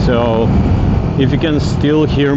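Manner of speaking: speaking up over engine noise; loud outdoor voice. Real, not acted. Talking over wind on a bike.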